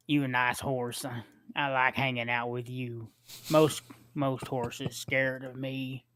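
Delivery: slow, simple-minded rasp as Shakespeare; Sling Blade voice. Acted. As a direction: play him slow and dull-witted. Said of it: "get it right".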